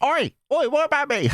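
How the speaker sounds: high falsetto granny calling out, demanding; jealous granny. Retold or imitated. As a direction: play a jealous old lady wanting attention. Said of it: "Granny is gonna like".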